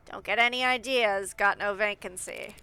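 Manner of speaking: nasal gatekeeper voice. Acted. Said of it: "I need to do the most nasal voice possible".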